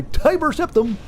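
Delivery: high, slow, grandly declaiming the name Tiber Septim; pompous emperor voice. Retold or imitated. Mocking how Tiber Septim would announce himself, high and slow. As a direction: proclaim your own name like a self-important emperor. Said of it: "that's how he would talk".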